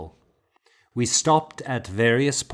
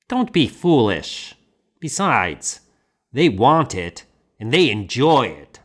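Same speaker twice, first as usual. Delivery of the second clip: louder, dismissive monk voice; hearty bluff monk; 3 semitones higher, 5 dB louder than usual. Acted. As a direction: brush off the objection heartily. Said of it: "Leo the hearty, bluff teacher".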